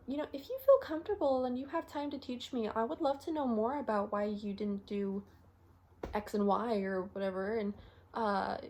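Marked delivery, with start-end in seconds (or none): 0.1-7.6 mock-polite junior doctor; careful, non-challenging. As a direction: ask a senior doctor without challenging them. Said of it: "a way that doesn't sound like a challenge".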